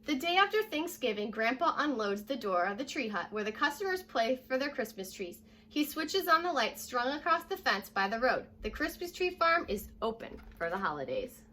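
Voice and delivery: clear, lively read-aloud voice; storybook narration for young kids; reading to children. Acted. Teacher reading picture book aloud.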